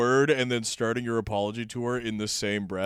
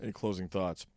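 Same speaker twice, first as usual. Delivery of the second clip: mock apology statement; 2 semitones lower than usual. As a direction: read it like a canned celebrity apology. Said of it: "parodying apology statement".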